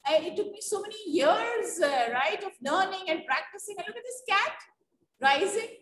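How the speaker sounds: a fakir marvelling at the floating cat; mock surprised fakir. Teacher voices a fakir amazed at the cat, mock astonished. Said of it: "Fakir will be so surprised".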